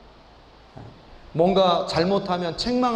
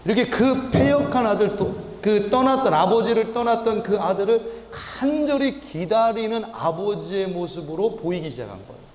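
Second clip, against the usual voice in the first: ordinary talk, nothing marked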